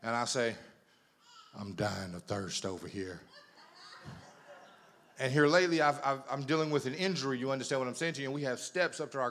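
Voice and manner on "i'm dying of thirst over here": mock pitiful whine. Pitiful plea from the bed.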